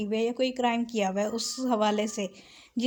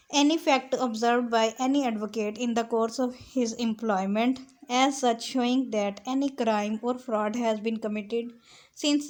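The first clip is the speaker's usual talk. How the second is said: slow, deliberate dictation of legal text; measured recital of a legal clause; slow statute reading; much slower than usual. Shown as a demonstration. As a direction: read the law out word by word, very slowly. Reads statute text aloud.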